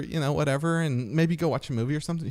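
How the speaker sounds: eager flamboyant invitation; camp voice. Retold or imitated. Buddy inviting her out in a camp voice. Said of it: "super gay voice".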